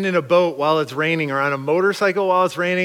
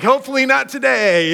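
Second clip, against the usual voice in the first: laughing through it, high and louder; 8 semitones higher, 4 dB louder than usual. Retold or imitated. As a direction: toss it off with a laugh. Laughing reply to scared kids.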